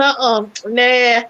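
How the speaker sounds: slow, low, unimpressed; mock refusal. Guest retelling how she refused the owner, slow and low. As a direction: drawl a flat-out no. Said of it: "I said".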